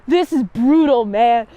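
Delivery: high, loud incredulous hoots; shocked bystander shouting over a brutal burn; stunned onlooker. Acted. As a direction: gasp at how harsh that rejection was, bro. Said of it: "And it's like".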